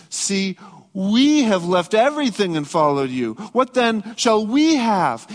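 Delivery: we pressed hard, a self-concerned ask; stress on we. Retold or imitated. Peter asking Jesus about reward, stressing "we". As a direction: lean on the word "we", slowing at the end. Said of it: "were written in the emphatic".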